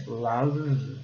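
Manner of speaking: "Love" ending on a held V; "Love" like "luv", letting the V ring; correct "love". Shown as a demonstration. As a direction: say "Love" with an open uh and no final vowel. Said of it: "E termina com V".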